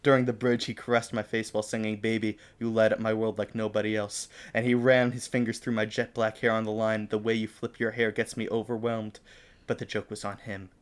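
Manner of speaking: measured fan-fiction reading; story narration. Acted. Reading own fan fiction to co-host, story narration. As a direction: read it out like an earnest story.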